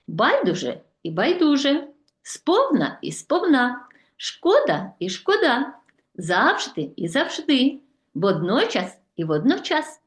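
each word twice, shifting the stress: Байдуже і байдуже, сповна і сповна, шкода і шкода; double stress demo. Shown as a demonstration. Teacher shows pupils the double stress of Байдуже, сповна, шкода, завжди, водночас. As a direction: say every pair twice, stress on a different syllable each time. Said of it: "з подвійним наголосом".

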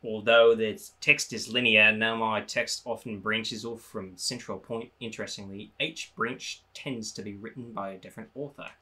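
lightly voiced museum guide; Hornfels voice. Shown as a demonstration. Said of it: "I'm still Hornfeld".

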